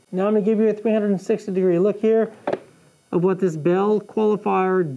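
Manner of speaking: muffled behind helmet chin bar; speaking inside a helmet. Real, not acted. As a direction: voice enclosed by full-face helmet. Seen 1: Helmet worn throughout; chin bar covers mouth, visor open.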